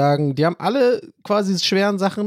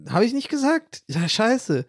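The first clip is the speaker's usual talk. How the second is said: startled surprise; 6 semitones higher, slower than usual. Retold or imitated. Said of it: "Und ich so".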